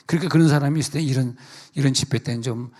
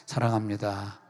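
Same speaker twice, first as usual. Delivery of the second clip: gentle love; 5 semitones lower, 7 dB quieter than usual. Shown as a demonstration. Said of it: "시작".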